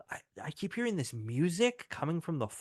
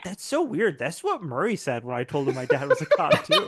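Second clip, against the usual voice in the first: put-on laughing kid voice; 6 dB louder than usual. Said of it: "he's like".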